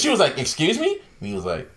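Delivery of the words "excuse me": mock a taken-aback interviewer; politely stunned, pitched up; incredulous. Interviewer's disbelief acted out.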